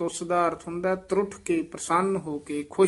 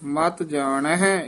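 ਮਤ ਜਾਣਹਿ with a falling close and brief stop; short check in the flow after ਮਤ ਜਾਣਹਿ; brief halt; much slower than usual. Shown as a demonstration. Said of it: "ਇੱਥੇ ਠਮਕ ਲਾ ਦੇਣੀ ਹੈ".

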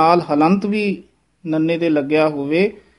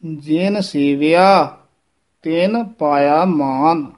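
slow, careful recitation; slow model reading; much slower than usual. Shown as a demonstration. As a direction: read it slowly, word by word. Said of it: "ਇੱਥੇ ਉਚਾਰਨ ਕਰਨਾ ਹੈ".

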